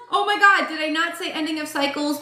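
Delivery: high-pitched, excited vindication; excited disbelief. Real, not acted. Reader sees the card confirm her prediction, excited disbelief. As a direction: exclaim it high, amazed to be proven right.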